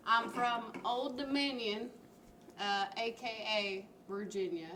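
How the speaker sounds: steadier second try at a Virginia accent; restrained Virginia accent, carefully placed; retried Virginia accent. Shown as a demonstration. Guest tries his home-state intro, steadier Virginia accent. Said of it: "yeah, I have trouble with that".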